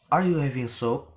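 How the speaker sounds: "are you having soup" held high as an open choice; rising intonation. Shown as a demonstration.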